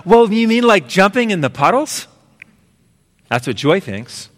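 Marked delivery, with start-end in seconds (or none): 0.1-2.1 eager Joy. Retold or imitated. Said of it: "And joy says".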